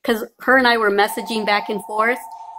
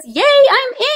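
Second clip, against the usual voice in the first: mock excited quote; 13 semitones higher, 7 dB louder than usual. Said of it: "messaged me and says".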